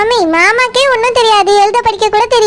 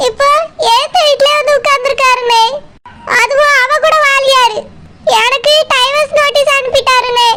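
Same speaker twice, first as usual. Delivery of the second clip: crying through the words; weeping to her brother; tearful complaint. Acted. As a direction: sob out the grievance.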